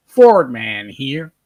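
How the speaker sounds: slow drawled imitation of a radio sign-on; Kenny. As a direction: drag every word out, mocking a ham-radio greeting. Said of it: "that's the only thing you get out of Kenny".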